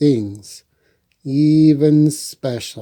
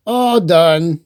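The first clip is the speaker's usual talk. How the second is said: Franklin pleased; 4 semitones higher, 5 dB louder than usual. Acted. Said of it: "he said to himself".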